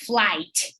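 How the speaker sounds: FLIGHT with a silent G and final T. Shown as a demonstration. Teacher showing student pronunciation, silent G in flight. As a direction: say "flight" with no G sound. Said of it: "you don't pronounce the G".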